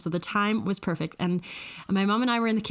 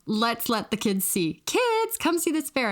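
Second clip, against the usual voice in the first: excited mom. Retold or imitated. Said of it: "No, she goes".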